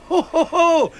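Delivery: big, high, loud "ho ho ho"; gloating laugh. Acted. Blind man exults that all are blind.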